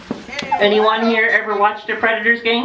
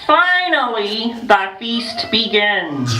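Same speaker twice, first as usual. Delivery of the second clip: storybook reading; slower than usual. Acted. Reading book to children.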